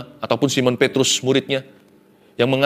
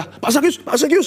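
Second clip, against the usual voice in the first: much higher, timid mock fear; fearful address; 13 semitones higher than usual. Townspeople nervously addressing the feared tax collector, mock fearful. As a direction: squeak the name like a nervous underling.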